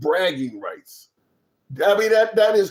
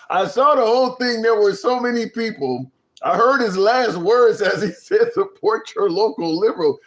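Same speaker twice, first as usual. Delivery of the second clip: animated retelling; 6 semitones higher, 3 dB louder than usual. Shown as a demonstration.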